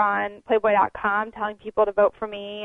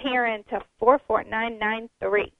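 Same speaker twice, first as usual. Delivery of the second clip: infomercial. Real, not acted. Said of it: "I sound like an infomercial".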